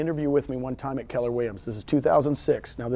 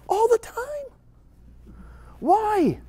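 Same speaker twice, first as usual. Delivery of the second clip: drawn-out emphatic answer; much slower than usual. Acted. Exaggerated answer to audience question.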